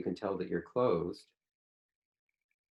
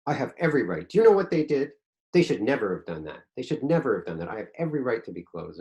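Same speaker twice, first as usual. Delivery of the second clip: louder, higher, defiant protest; indignant; 3 semitones higher, 5 dB louder than usual. Retold or imitated. Closed friend defending himself, indignant and louder. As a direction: insist on your right to be upset. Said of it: "and I say".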